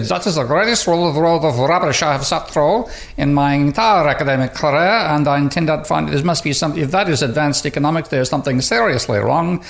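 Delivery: lightly put-on Austrian accent, mostly own voice; bad Austrian accent. Professor imitating Blatt's verdict, in a bad Austrian accent. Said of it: "my very bad attempt at an Austrian accent".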